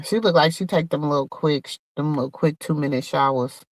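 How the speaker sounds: soft, confiding dig; catty aside. Real, not acted. Telling viewers Monette looks unwashed, in a soft catty aside.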